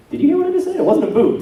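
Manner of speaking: high, loud exasperated comeback; exasperated retort. Retold or imitated. Correcting a stickler American, high and loud exasperation. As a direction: snap back like you've had enough. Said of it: "I'm like".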